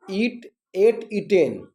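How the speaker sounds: slow, spaced-out recitation of verb forms; memorisation drill. Shown as a demonstration. Teacher shows pupils how to recite, slow drill. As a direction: say ईट, एट, ईटेन one by one, slowly. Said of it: "पढ़ना हमको किस तरह से है".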